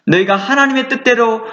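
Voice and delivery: ordinary delivery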